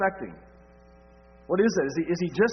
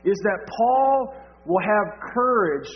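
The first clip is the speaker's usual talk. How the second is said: fervent preaching; 6 semitones higher, 5 dB louder, slower than usual. Acted. Preaching building to full force.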